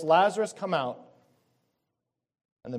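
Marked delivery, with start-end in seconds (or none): 0.0-1.0 raised, higher calling voice, easing off; preacher imitating a loud summons; loud cry. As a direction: call it out like a command, retold from the pulpit. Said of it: "cries out with a loud voice".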